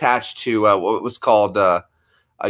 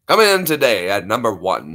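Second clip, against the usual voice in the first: Kent Brockman; 4 semitones lower than usual. Acted. Anchor presenting the top story, newscaster voice. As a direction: lower cartoon newscaster voice. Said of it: "The news guys from The Simpsons".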